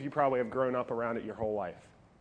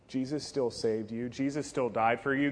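ordinary delivery

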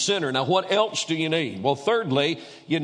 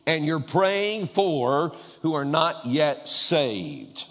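slow emphatic; much slower than usual. Real, not acted. Preacher slows the question.

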